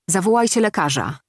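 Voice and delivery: wołanie o pomoc, podniesiony głos; zawołaj pielęgniarki do działania; krzyk. Acted. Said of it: "krzyknął". (ponaglający krzyk)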